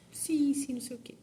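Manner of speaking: breathy high whisper, half swallowed; whispered reply. Retold or imitated. Boy whispers a vague yes to his father, mumbling. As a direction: murmur the answer without commitment.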